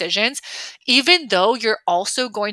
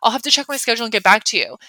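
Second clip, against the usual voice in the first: bright higher oh wow, then a fast polite brush-off; polite deflection; 3 semitones higher than usual. Shown as a demonstration. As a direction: thank them warmly and stall. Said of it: "I could just be like".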